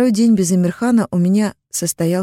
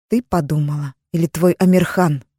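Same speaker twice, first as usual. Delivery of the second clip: spat out. Acted. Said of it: "выплюнула она имя".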